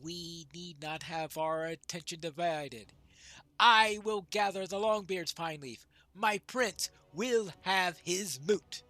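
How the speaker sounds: measured storytelling, firming at the end; lightly voiced veteran dwarf. Old dwarf recalls the last moot, lightly solemn. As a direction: recount old battles in a lightly acted voice.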